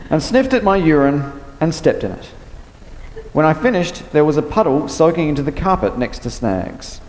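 steady, measured reading of a novel passage; story reading. A narrator's reading. Author reading her novel passage to the interviewer, in an even reading voice. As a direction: read the excerpt aloud to the listener.

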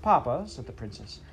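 a tearful princess pleading. Acted. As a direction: beg papa not to be cruel. Princess pleading before weeping.

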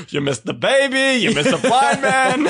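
high, nasal cartoon cop voice; Chief Wiggum voice. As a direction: do a goofy cartoon police chief. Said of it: "He's like".

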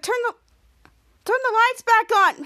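high, loud order; yelled command. Retold or imitated. Charlotte in the dark, high loud yell for lights. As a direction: shout for the lights.

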